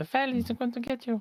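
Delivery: put-on squeaky, childlike, very high voice. Asked how a line is voiced, a player answers in a childish squeaky voice. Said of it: "sort of childish, like a squeaky voice".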